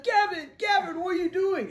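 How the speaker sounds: loud, high call across a dark room. Retold or imitated. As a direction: call his name, alarmed. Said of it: "and I'd be like".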